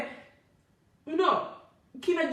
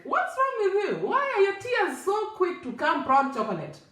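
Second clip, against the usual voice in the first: lightly voiced woman asking, higher pitch; quoted nosy lady; 5 semitones higher than usual. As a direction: mildly imitate a puzzled, probing lady. Quotes lady questioning her tears.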